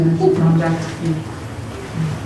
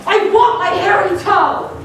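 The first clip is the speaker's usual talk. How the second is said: high, louder hammed-up cry; mock spooky shout; 11 semitones higher, 3 dB louder than usual. Host after the story, hamming up the monster's line loudly. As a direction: shout it like a campy ghoul.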